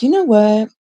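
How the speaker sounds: fed up, cut them off; annoyed outburst. Retold or imitated.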